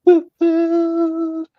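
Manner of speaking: high, bright woo-hoo; cheer. Real, not acted. Co-host cheering for the winning bidder. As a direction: squeal like a fan.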